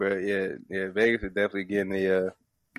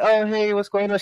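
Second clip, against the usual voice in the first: put-on high-pitched friendly old lady greeting; put-on high voice, sociable; 10 semitones higher, 4 dB louder than usual. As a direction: imitate a chirpy lady saying hello. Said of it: "like, this old lady comes on".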